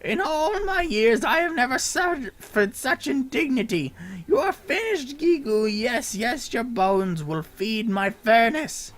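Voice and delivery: high, loud, laughing villain threats. Acted. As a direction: bellow at the little goblin.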